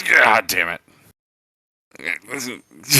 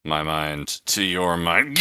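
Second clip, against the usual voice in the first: Vulcan mind meld; 3 semitones lower, slower than usual. Pretend. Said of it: "dub that over the scene of Star Trek Two".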